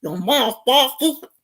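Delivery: imitating a thick, swollen tongue; mock mumbly big-tongue speech; thick-tongued talk. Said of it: "he ends up talking like this".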